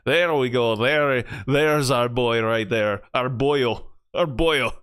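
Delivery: settled, natural Irish accent; lightly played Irish lad. Shown as a demonstration. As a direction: say it with an easy Irish brogue. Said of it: "Irish accent can still hear it".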